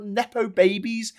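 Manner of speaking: "babies" drawn out with scornful emphasis; high, slowed delivery landing on "babies"; stress on babies. Real, not acted. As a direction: lean slowly on the word "babies". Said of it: "Emphasis on babies".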